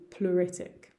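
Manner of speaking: "pleuritic" with EU said as U; silent E. Shown as a demonstration. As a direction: say "pleuritic" as ploo-RIT-ik. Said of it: "Ignore that E and just think of the U".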